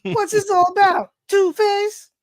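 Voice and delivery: high cartoon villain voice; put-on villain, high and hammy; Joker. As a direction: pitch it up as a comic-book villain. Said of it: "All right, Joker".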